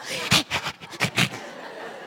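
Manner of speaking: voiceless panicky breaths; mock panicked gasping. Repeats her panic sound after title.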